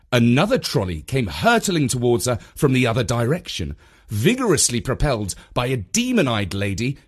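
plain reading voice

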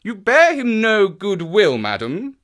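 high, firm character voice; pressing detective. Acted. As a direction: press the witness earnestly. Voices Holmes questioning her.

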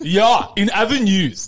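slow, laughing anchor parody; mock newscaster laughing. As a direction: laugh through a fake news line. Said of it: "I sound like a newscaster".

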